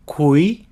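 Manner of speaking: Cui-a-ba split into three slow beats: Cui, a, ba; syllable by syllable. Shown as a demonstration. Teacher breaks a city name into syllables for students, slowly. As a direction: break Cui-a-ba apart, one syllable at a time. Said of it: "Repeat after me".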